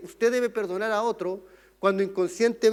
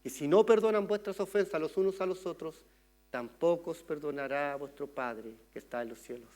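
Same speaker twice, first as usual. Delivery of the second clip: solemn quoted scripture; 5 semitones lower, 7 dB quieter than usual. Acted. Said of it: "Jesús cuando enseñó a orar dijo".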